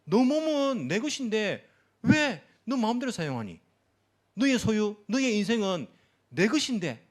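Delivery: lightly voiced Lord, emphatic and questioning; Lord claiming ownership. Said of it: "우리 주님께서 우리에 대해서 소유권을 주장하시는 거예요". (소유권을 주장하시는 주님처럼 힘주어)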